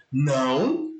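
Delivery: low, firm "no" to a dog; mock telling-off. Shown as a demonstration. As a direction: say it like a brief scolding. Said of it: "com a entonação mesmo como se fosse uma bronca".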